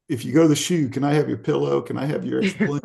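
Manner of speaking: a cheeky friend calling dibs; buddies asking. Retold or imitated. Buddies begging his stuff.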